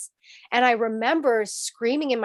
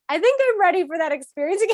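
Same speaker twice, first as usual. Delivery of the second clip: laughing; 9 semitones higher, 3 dB louder, faster than usual. Real, not acted. Joking about retrying.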